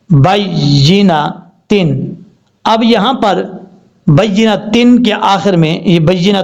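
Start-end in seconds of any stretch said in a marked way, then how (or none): 0.1-2.1 very slow, drawn-out reading; slow spelled recitation. Shown as a demonstration. Teacher joining the spelled word after spelling it out. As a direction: read the syllables out slowly. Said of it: "نون زبر نا".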